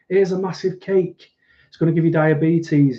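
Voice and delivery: mock TV cook. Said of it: "It's like".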